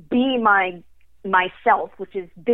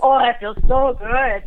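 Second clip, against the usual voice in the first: slow, louder, blissful 'ahh' of comfort; blissful sigh of relief; 4 semitones higher, 7 dB louder, slower than usual. Pretend. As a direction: savour it like stepping into a hot shower after the cold. Imagined relief in warm shower.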